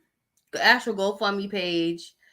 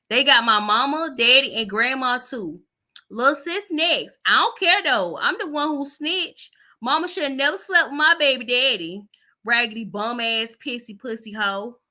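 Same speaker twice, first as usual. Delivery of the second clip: slightly higher, sassy voice for the text sender; reading in a put-on voice; 4 semitones higher, 3 dB louder than usual. Vlogger reads the daughter's text with snitching bragging. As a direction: play the snitching daughter, bratty and smug. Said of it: "And I'm gonna read like this".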